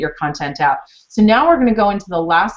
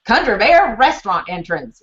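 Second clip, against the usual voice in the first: country twang; 3 semitones higher than usual. Retold or imitated. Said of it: "But with kind of a country twang".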